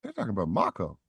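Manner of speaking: a gamer recognizing his favorite game, voice climbing; growing excitement at the audition script; excited realization. Retold or imitated. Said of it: "I'm like".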